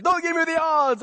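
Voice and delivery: Han Solo quote. Retold or imitated. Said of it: "And he's like".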